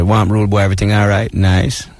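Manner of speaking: put-on Jamaican accent. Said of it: "you can slide right into it".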